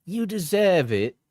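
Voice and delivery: lightly mocking British accent; put-on accent. Reading an ex's texts aloud, put-on British accent. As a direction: read it back in an affected British voice. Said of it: "when I'm doing the accent".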